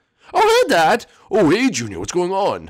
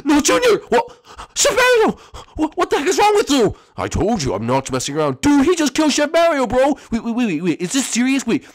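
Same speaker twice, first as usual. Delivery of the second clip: much higher and louder, shrieking in horror; a kid screaming as his friend is killed; screaming panicked kid; 8 semitones higher, 5 dB louder than usual. Acted.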